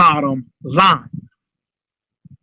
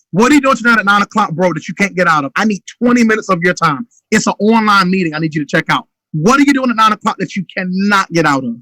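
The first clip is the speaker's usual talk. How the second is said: urgent phone pitch; faster than usual. Shown as a demonstration. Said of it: "Urgency, urgency".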